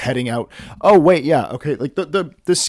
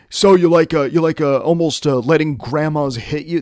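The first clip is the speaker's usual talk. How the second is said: mock accusing stranger, pitched up a bit; confrontational truck driver; 3 semitones higher, 3 dB louder than usual. Imagined truck driver challenging her about grandmas, mock confrontational. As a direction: play at confronting someone, louder at the start. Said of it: "pop out of the truck and be like".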